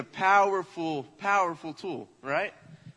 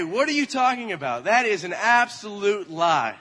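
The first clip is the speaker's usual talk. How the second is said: higher, louder baffled protest; mock indignant denial; 4 semitones higher, 5 dB louder than usual. Parents answering child's trash can claim, indignant. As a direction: deny it emphatically, acting out shocked parents.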